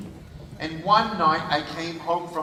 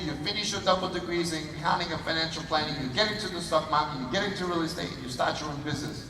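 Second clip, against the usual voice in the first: motherly instructions; 5 dB quieter, faster than usual. Retold or imitated. Mother reels off career instructions.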